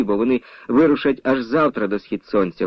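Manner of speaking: plain reading voice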